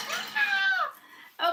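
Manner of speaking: high laughing shriek of delight; excited squeal. Real, not acted. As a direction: squeal with real joy. Excited squeal over the box.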